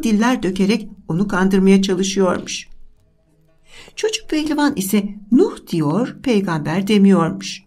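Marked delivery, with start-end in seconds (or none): none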